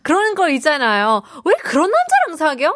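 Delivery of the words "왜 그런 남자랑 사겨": higher, mock-scolding question; disapproving friend. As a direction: question a friend's choice of boyfriend. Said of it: "그런 느낌 있잖아요". (핀잔주는 친구 말투)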